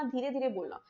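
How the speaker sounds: softly, showing what quiet speech sounds like; soft demo. Shown as a demonstration. Teacher showing students a soft voice, quietly. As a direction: drop the voice to show soft talk. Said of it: "धीमा बोलना".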